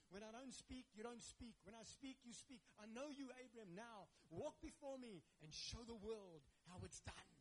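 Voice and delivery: God's voice, building to a loud proclaiming call; God speaking. Acted. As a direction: speak as God, rising into a big declaration. Preacher voices God speaking to Abram.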